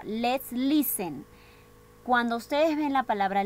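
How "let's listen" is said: slow read instruction. Shown as a demonstration. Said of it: "dice acá".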